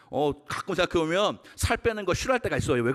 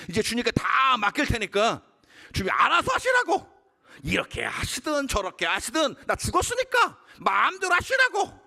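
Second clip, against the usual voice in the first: shouted surrender; 9 semitones higher than usual. Retold or imitated. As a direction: cry out, hand everything over. Retold resolute prayer of surrender. (점점 높아지며 외치듯이)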